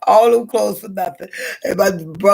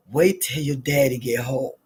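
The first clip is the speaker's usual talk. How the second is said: mock stern mother; 4 semitones lower, 5 dB quieter than usual. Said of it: "this stuff that Mama used to say".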